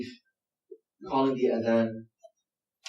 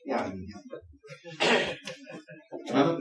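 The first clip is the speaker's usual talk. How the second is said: lightly voiced beard-grabbing persuasion; imitating a coaxing Arab elder; 7 dB quieter than usual. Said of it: "they say".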